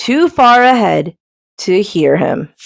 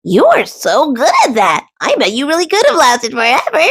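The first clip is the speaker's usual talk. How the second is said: exclaiming; 6 semitones higher than usual. A narrator's reading. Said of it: "exclaimed Duck".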